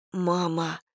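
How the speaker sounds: a small broken plea; pitiful. A narrator's reading. Daughter begging her mother, soft and pitiful. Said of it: "голос показался Тиль чужим и жалким".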